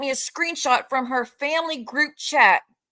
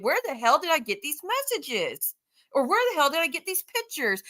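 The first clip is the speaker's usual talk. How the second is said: higher-pitched, swooping mock disbelief; mock dumbfounded; 5 semitones higher than usual. Streamer mimics rival claiming ignorance about pictures, mock dumbfounded. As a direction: play up her bewilderment. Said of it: "She, she's dumbfounded".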